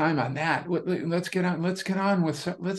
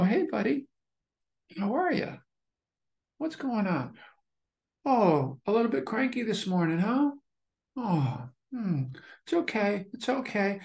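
put-on childlike voice; 4 semitones higher than usual. Shown as a demonstration. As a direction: talk to your inner kid like a gentle parent. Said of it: "I'll do it in a childlike voice".

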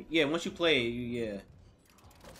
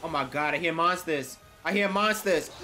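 nervous; 3 semitones higher, 6 dB louder than usual. Real, not acted. Hears monsters, rising fear.

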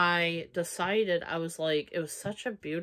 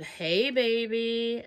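higher, drawn-out imitation of a come-on; mock flirty greeting; 5 semitones higher, 4 dB louder, slower than usual. Woman reading out a stranger's text, mock flirty.

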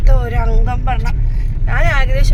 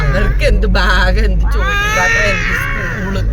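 mock outrage; 9 semitones higher, 4 dB louder, slower than usual. Mother playfully scolding toddlers.

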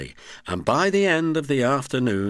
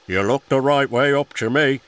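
laughing; 5 semitones higher, 5 dB louder than usual. A narrator's reading. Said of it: "laughed the Fat Controller".

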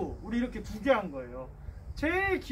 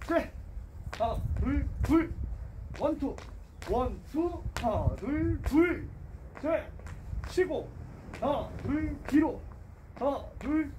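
higher, punchy counted calls; barking gym coach; 5 semitones higher, slower than usual. Shown as a demonstration. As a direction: bark out the count to finish. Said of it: "복싱 자세 잡고 잽 시작".

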